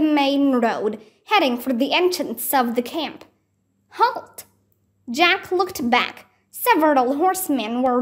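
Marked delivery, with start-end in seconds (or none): 3.9-4.4 very high sharp shout; shouted halt. Acted. Horseman shouting at the running children to halt. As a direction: stop them in their tracks. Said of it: "the lead horseman shouted again".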